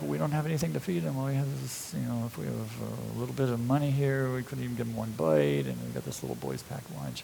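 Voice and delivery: doubtful muttering. Retold or imitated. Disciples told to feed the crowd, doubtful muttering. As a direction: mimic helpless followers mumbling excuses under their breath.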